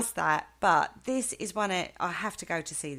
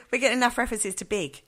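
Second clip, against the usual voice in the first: laughing through the question; giggling as she asks; words bubbling with laughter; 4 semitones higher, 4 dB louder, much faster than usual. Real, not acted. Laughing while asking.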